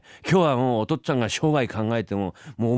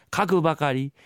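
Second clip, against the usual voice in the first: reciting a poem; 2 semitones higher, slower than usual. Acted. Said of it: "昔からよく言うでしょ".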